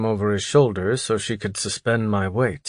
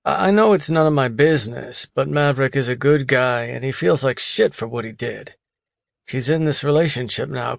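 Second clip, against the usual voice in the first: friend's voice; 3 semitones higher than usual. Acted. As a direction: vouch for your friend earnestly. Kent defends Maverick to wife.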